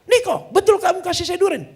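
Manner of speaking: high, loud retold demand; calling out. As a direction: call out a pressing question. Calling to crying Niko.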